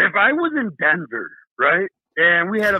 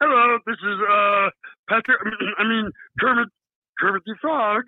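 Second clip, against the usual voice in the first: Kermit the Frog voice. Shown as a demonstration. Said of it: "I can do a good Kermit the Frog impersonation".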